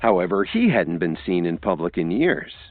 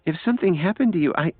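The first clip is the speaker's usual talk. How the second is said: put-on shy young woman; 11 semitones higher than usual. A narrator's reading. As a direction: voice Lily high and timid. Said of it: "Lily said shyly".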